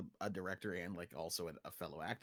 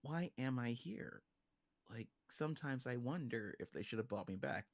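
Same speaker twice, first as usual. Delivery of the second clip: theatrical soliloquy; 4 dB quieter than usual. Shown as a demonstration. Director demonstrating the stage version, theatrical. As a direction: declaim it like a "to be or not to be". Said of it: "You can do it theatrically".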